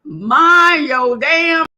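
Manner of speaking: slow, loud scolding shout; slow angry yell at the viewer. Real, not acted. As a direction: bark it out, dragging each word. Scolding someone on stream.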